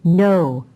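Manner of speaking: husband firmly reassuring his wife; emphatic no. A narrator's reading. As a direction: shut the idea down in one word. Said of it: "Jeff's answer was emphatic, firm".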